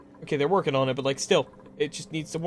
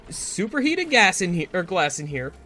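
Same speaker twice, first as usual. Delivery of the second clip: excited hope; 4 semitones higher, 4 dB louder than usual. Real, not acted. Hoping pipes finally work.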